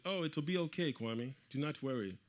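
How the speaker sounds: lilting mock reassurance; reassuring official. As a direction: imitate an official's easy reassurance. Retold Ghanaian official reassuring him.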